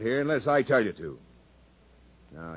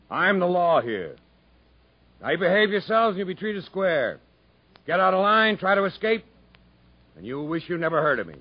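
stern warning; 6 semitones higher, 4 dB louder than usual. Acted. Captain warns new convicts.

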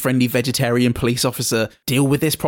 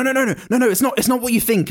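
a much higher, fast flustered no-no-no; panicked denial; 9 semitones higher, much faster than usual. Acted. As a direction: scramble to deny, caught red-handed. Caught out, protesting denial.

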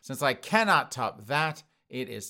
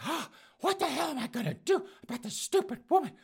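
mock worker voice; 13 semitones higher than usual. Voicing the worker.

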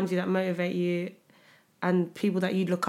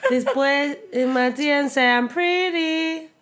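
quoting TikTok; 3 semitones higher than usual. Retold or imitated. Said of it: "Have you not heard the full thing?".

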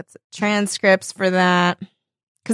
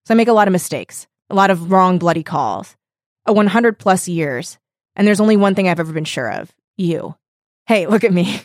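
heartfelt reading; 4 semitones lower, faster than usual. Retold or imitated. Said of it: "I'm almost crying now from hearing you read it".

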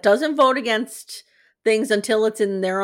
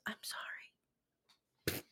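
soft unvoiced whisper, very slow; whispered sorry; 23 dB quieter, much slower than usual. Robin whispering an apology to Cody, slow and soft. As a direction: breathe it out gently, barely audible. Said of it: "touches his leg gingerly and goes".

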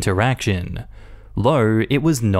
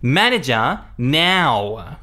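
entitled customer; 3 semitones higher, much slower than usual. Retold or imitated. Customer insists on manager.

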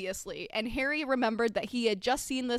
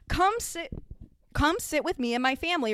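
put-on a keen boy waving a friend over; calls a new friend over eagerly; 5 semitones higher than usual. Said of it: "Ronald offered eagerly".

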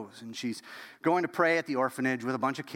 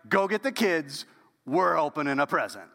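excited call. Retold or imitated. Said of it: "She's like".

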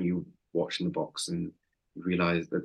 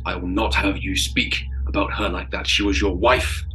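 loud, indignant defence getting louder; angry shout; 3 semitones higher, 4 dB louder than usual. Acted. Thomas shouting at the man behind him, angry and loud. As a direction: Thomas shouts back, refusing the accusation. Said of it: "he's shouting at whoever's behind him".

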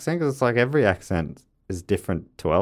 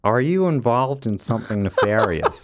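light, unforced American accent demo; neutral American accent; 3 semitones higher than usual. Shown as a demonstration. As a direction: perform it in a neutral American accent, not trying too hard. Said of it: "I'll perform it for you now".

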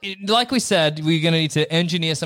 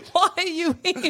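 nanny falsetto; 10 semitones higher than usual. Pretend. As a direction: keep the nanny voice going.

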